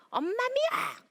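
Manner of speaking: put-on high, loud whiny child yelling; child's tantrum. Four-year-old shouting at mom, high whiny yell.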